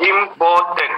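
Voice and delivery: इंपॉर्टेंट split into इं, पॉर, टेंट; syllable by syllable. Shown as a demonstration. Teacher showing three syllables, इंपॉर्टेंट said in separate syllables. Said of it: "three syllables आ रहे हैं".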